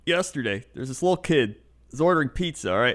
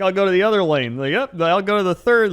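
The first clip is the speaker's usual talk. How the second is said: mock exasperated; 6 semitones higher, 5 dB louder than usual. Frustrated passing slow walkers.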